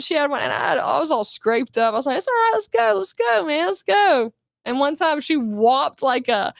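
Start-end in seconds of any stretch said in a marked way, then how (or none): 2.2-4.3 1 hyped pep talk. Retold or imitated. Scraped up, pushing on.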